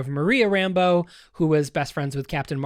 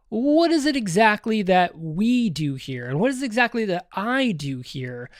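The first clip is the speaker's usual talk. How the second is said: lightly voiced Vision; 5 semitones higher than usual. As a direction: ask it as a puzzled, slightly raised character quote. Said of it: "Vision says".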